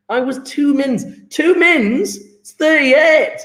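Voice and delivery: high, incredulous mock protest; mock indignation. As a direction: scoff at a late excuse, pitch climbing. Mock outrage at lateness excuse.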